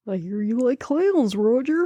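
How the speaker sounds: taunting creepy clown voice; put-on clown voice, drawn into a taunt. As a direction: menace Roger as a sinister clown. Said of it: "creepy fucking clown".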